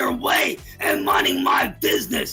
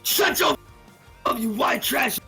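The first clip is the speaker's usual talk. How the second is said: berserk rage. Real, not acted. Shouting insults at confronter.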